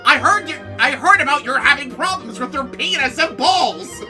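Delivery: normal talking voice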